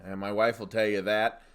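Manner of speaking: usual speaking voice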